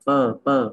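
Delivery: "per" as "pơ", an uh sound; PER with ơ vowel. Shown as a demonstration. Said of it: "đọc là bằng cái từ ơ".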